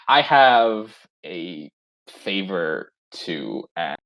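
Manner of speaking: slow, low, talking around a spoon; spoon in mouth. Acted. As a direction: speak with a spoon in your mouth. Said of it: "Mikael goes".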